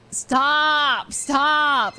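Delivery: loud, high mock protest; embarrassed protest. Friend caught crying begs them to quit, loud mock protest. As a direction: cry out as if caught tearing up.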